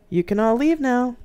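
high, loud cold command; loud order. Acted. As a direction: order the crowd away loudly. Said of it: "he said loudly".

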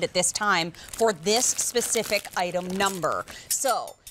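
upbeat on-air sales pitch; home shopping host. Acted. On-air price and order pitch.

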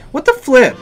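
high, loud "what the flip" of disbelief; shocked outburst. Real, not acted. Gamer stunned by the opponent's deck, shocked high shout. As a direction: blurt it out in real shock.

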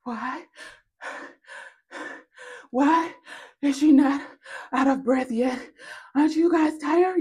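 high, put-on whining voice; high, halting, out-of-puff complaint; baffled enemies. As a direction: wail in mock-exhausted bafflement. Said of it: "your enemies are wondering".

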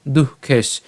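দুঃখেশ ending on a bare sh; broken-off syllable. Shown as a demonstration. Teacher repeats the first piece, দুঃখেশ stopped on sh. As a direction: sound দুঃখেশ up to the sh only. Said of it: "উচ্চারণ করলাম মূর্ধন্য স পর্যন্ত".

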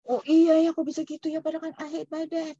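sudden dawning surprise as the client; client realizing. Retold or imitated. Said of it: "dia bilang gitu ya".

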